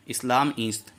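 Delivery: "ईस्त" run together as one long-ee syllable; joined pronunciation. Shown as a demonstration. Teacher showing students how it is read joined, merged pronunciation. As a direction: blend ई and अस्त into "ईस्त". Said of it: "तो इसको मिलाकर पढ़ते हैं".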